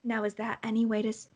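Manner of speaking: condescending. Acted. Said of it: "she's like".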